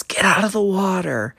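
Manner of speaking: high, loud mock yell of a lifeguard. Retelling a corny porn scene, a high mock lifeguard yell. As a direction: bark it like a bossy lifeguard. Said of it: "she yells at him".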